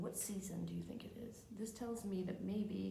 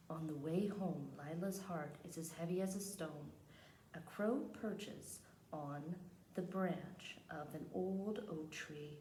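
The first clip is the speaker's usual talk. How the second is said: measured picture-book reading; read-aloud narration; slower than usual. Acted. Teacher reads a picture book to the class, measured storytelling. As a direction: read the story out unhurriedly, phrase by phrase.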